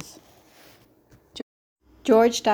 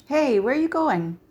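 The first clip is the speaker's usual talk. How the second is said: higher, surprised call after him; calling after someone; 7 semitones higher, 4 dB louder than usual. A narrator's reading. Calls after George bolting out.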